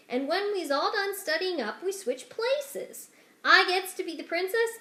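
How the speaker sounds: put-on excited servant girl. Servant girl reaching her favorite part of the plan, gleeful and high. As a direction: relish every word of the dream.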